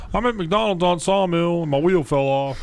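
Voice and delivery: imitating his mom calling late at night; mom on the phone. Mom calling about broken car.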